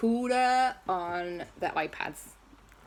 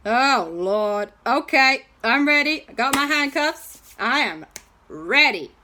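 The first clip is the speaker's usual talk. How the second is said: bracing policeman; 5 semitones higher, 5 dB louder than usual. Acted. Chad the policeman braces himself.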